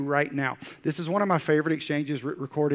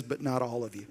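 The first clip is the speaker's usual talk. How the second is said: ominous hush; 6 semitones lower, 8 dB quieter than usual. Acted. Jesus's ominous remark.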